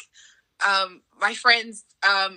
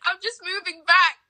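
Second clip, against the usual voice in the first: laughing; 11 semitones higher than usual. Retold or imitated. Retold frustrated self, laughing.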